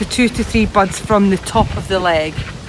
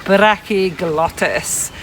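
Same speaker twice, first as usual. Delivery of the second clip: slow, lower, hammed-up Scottish accent; great Scottish accent; 3 semitones lower, much slower than usual. Shown as a demonstration. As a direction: draw the word out in broad Scottish. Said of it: "say that in a great Scottish accent".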